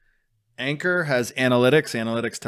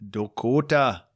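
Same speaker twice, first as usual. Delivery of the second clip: mock North Dakota accent; 3 semitones higher, slower than usual. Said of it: "legit accents".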